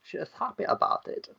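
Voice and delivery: lilting mock French accent. Host telling how the lady feels, slipping into French accent. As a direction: narrate in a wobbly French accent. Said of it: "Going French again".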